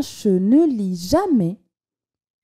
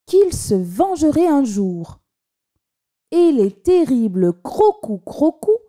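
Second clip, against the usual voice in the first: expressive reading aloud. A narrator's reading. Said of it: "en mettant le ton".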